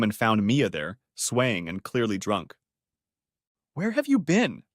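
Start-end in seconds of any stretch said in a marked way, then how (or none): 3.7-4.6 questioning. Acted. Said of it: "said I".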